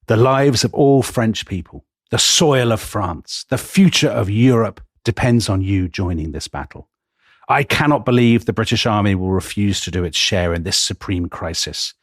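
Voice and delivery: slowed, a touch impassioned, retelling a plea; lightly voiced general pleading with passion; mild throbbing passion. French general begging the British field marshal, mildly impassioned. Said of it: "his voice is throbbing with passion".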